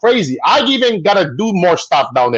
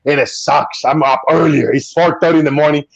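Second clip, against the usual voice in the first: groggy vlogger; 6 semitones lower than usual. Retold or imitated. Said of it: "you say".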